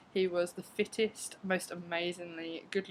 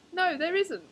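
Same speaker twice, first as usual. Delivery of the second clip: high, louder mock gruff no; imitating the annoyed stranger; curt stranger; 12 semitones higher, 6 dB louder, slower than usual. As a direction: brush her off. Topless man's curt reply.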